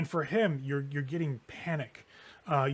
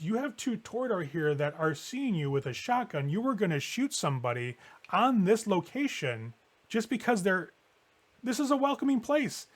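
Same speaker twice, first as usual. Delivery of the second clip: indignant scolding; 5 semitones higher than usual. Acted. James scolds Sun over the shotgun.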